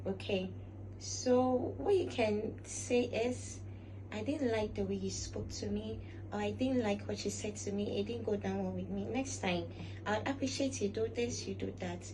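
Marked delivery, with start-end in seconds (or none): 4.1-12.1 calm polite reply. Shown as a demonstration. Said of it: "That makes you a very elegant person".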